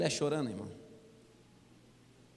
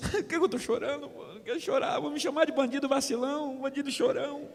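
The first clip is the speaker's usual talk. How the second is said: crying and shouting; 7 semitones higher, 4 dB quieter than usual. Retold or imitated. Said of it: "chorava e gritava assim".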